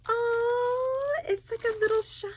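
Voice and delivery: high squealing delight, close to tears; high emotional squeal; overjoyed squeal. Real, not acted. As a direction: cry out in happy surprise. Overwhelmed by cute packaging.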